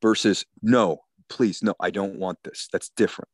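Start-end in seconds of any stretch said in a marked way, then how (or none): 0.6-2.7 firm, sincere refusal in a natural pitch; emphatic no. Acted. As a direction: say no plainly and mean it. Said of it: "The emphatic no".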